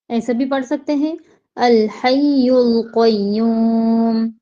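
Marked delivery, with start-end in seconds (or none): 1.6-4.3 slow, drawn-out tajweed chant; Quranic recitation. Shown as a demonstration. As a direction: recite it slowly, stretching each vowel. Recites Ayat al-Kursi.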